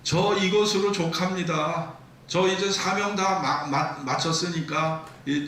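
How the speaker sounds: pleading lament. Acted. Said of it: "하소연하면서 기도합니다".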